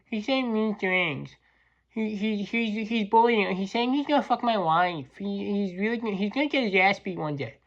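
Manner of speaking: put-on tattling to the boss like a hurt kid; whiny tattletale. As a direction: coworker complaining to the boss in a mocking whine. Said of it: "one of these little rats decided to go in and say".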